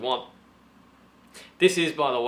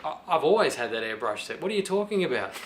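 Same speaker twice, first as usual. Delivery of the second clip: mock innocent excuse; 2 semitones higher than usual. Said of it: "I'll say".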